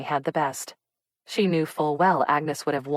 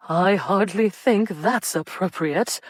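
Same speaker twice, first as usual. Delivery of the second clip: stern chide, higher, louder and slow; prim matron's disapproving chide; chiding; 4 semitones higher, 5 dB louder, slower than usual. A narrator's reading. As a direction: scold the rogue. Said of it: "Missus Mayweather chided".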